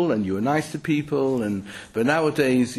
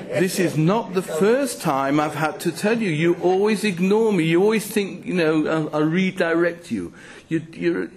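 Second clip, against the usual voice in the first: mildly exasperated scolding, pitched higher; higher-pitched comic telling-off; nagging; 4 semitones higher than usual. Acted. Speaker voicing a sat-nav fed up with the driver, nagging.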